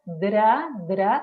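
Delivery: "dra" twice, dental D into tapped R; DR replacing trill. Shown as a demonstration. Speech therapist repeats the acceptable substitute, DR sound. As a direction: repeat "dra" with the tongue forward on the D. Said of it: "otra vez la D sí que es dental".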